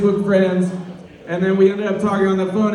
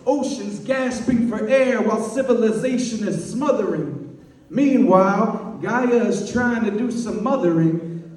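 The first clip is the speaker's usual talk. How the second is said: rhythmic slam poetry delivery; punchy, lilting poetry cadence; spoken-word poem; 3 semitones higher than usual. Acted. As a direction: perform it as verse, leaning on every rhyme.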